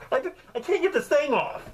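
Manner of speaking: waking the wife, embarrassed and laughing; sheepish to wife. Retold or imitated. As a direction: giggle through an awkward confession. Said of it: "Go wake her up?".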